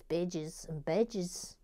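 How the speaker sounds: Australian vowels on "badges and badges"; mock-Australian "bedges and bedges"; Australian accent. Shown as a demonstration. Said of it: "I imagine in Australian".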